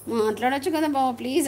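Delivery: hushed, pleading please; wife hushed and pleading with her husband; soft pleading. Retold or imitated. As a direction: softly beg him to talk. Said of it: "అంట".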